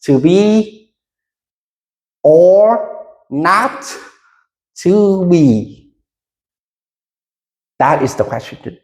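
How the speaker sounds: To be or not to be, said slowly, word by word; teacher modelling the line slowly for the class to repeat; slow line read. Shown as a demonstration. Teacher slowly models the line for students to repeat. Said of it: "again, slowly here".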